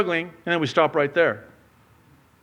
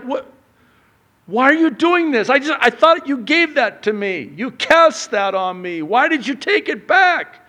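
much higher, loud disbelief; mock bewildered God; baffled God; 9 semitones higher, 6 dB louder than usual. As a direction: throw up your hands. God's puzzled complaint.

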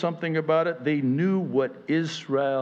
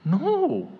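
high, drawn-out no; mock student's stubborn no; defiant no; 14 semitones higher, 3 dB louder than usual. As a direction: refuse flatly, up high. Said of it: "here's the guy going".

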